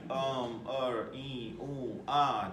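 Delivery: drawn-out filler sounds, demonstrated; searching-for-an-answer noises; hesitation fillers. Shown as a demonstration. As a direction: stall with stretched ums and ahs. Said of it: "the interesting sounds that we make".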